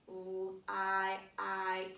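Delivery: "L-I-I" with the long i stretched; teacher modelling the long i; sounding out. Shown as a demonstration. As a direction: draw out the long I. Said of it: "light has a long I sound".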